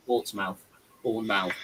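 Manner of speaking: Portsmouth and Bournemouth with a full "mouth"; two separate words. Retold or imitated. Laughing at Welsh speech, Portsmouth and Bournemouth as two words. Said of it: "say it's two separate words".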